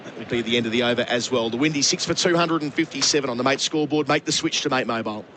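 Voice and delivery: brisk start, lifted broadcast voice; end-of-over score read. Real, not acted. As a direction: round off the over for listeners.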